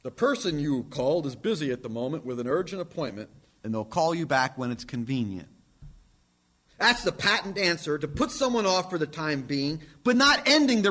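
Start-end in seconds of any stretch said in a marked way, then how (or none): 0.0-5.5 automated message voice. Retold or imitated. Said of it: "Respond by text".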